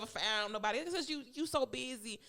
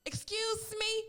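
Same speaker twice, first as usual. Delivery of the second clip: higher, mock-outraged excuse me; incredulous excuse me; 9 semitones higher, much slower than usual. Real, not acted. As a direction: act scandalized, drawing it out. Incredulous repeated retort.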